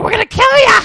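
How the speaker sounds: high, loud threatening yell. Retold or imitated. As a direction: scream it like a thug. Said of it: "He's like".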